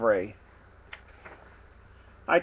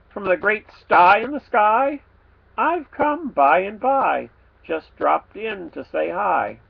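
pig voice; 4 semitones higher, 4 dB louder, slower than usual. Acted. Pig answers in rhyme.

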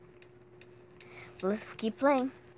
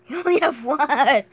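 tag; 3 semitones higher, 10 dB louder than usual. Real, not acted. Shouting at game opponent.

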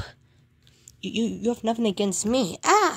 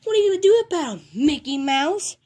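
acted taunt; 3 semitones higher, 4 dB louder than usual. Bully taunts Mickey.

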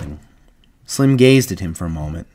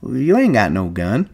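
put-on tentatively hopeful old ranch hand; 4 semitones higher than usual. A narrator's reading. Candy looking for a way to save his dog, hopeful. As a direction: grasp at a small hope. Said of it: "Candy said hopefully".

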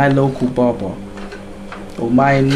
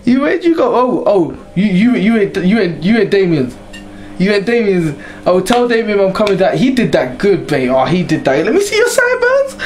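put-on high, excited girlfriend voice; gushing girlfriend; 5 semitones higher than usual. Girlfriend greeting him home, high and gushing. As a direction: coo over his new haircut like a girlfriend. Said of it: "not me coming home".

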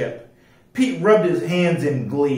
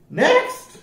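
high, loud parrot call; blaring parrot; 5 dB louder than usual. A narrator's reading. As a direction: blare the order, rising sharply. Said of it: "blared the parrot".

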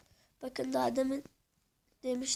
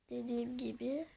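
quick breathy whisper; 5 dB quieter than usual. Real, not acted. Gamer reminding viewers mid-tour, in a whisper. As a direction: say it as a hushed aside. Quiet aside while touring.

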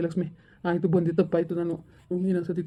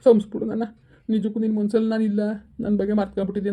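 angry outburst; 3 semitones higher than usual. Acted. Hurt friend snaps back.

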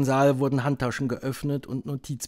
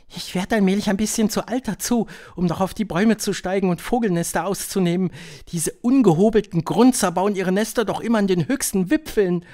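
high witch voice, less loud; high-pitched, complaining old witch; aging witch; 7 semitones higher, 4 dB louder than usual. A narrator's reading. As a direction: grumble to a neighbour in a high witch voice.

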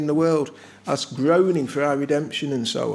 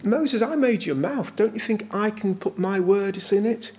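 higher-pitched rebuke without shouting; imitated divine impatience, raised pitch; mildly angry God; 4 semitones higher than usual. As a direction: retort as an exasperated God, lightly acted. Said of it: "The Lord got angry with Moses".

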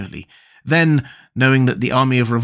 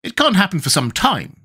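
high, reassuring tin man; mildly hopeful character voice; attempted cheerfulness; 8 semitones higher than usual. A narrator's reading. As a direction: try to sound cheerful in a raised pitch. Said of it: "trying to speak cheerfully".

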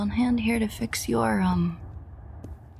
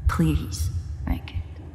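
whispered plea; much slower than usual. Acted. Pleading over dying friend.

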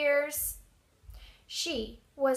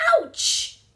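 high, loud acted yelp; pained squeak; 4 semitones higher, 8 dB louder than usual. A narrator's reading. Mouse nibbled on the tail, yelping high. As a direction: squeak as if suddenly nipped. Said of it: "squeaked Mouse".

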